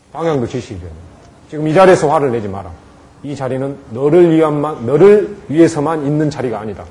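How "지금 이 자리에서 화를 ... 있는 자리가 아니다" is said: firm and decisive. Shown as a demonstration. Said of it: "분명하게 해야 됩니다".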